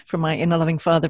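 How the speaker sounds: voiced protest with firm emphasis; protesting inner child. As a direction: push back like a child objecting, lightly acted.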